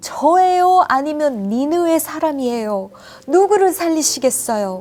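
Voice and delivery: loud, high, pushy, demanding voice.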